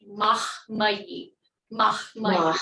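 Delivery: Mahmai with the H clearly breathed before the second m; Mahmai, voicing no vowel after the H, just audible breath before "mai"; sounded H. Shown as a demonstration. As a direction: make the H heard in the middle of Mahmai. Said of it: "we have to make that H".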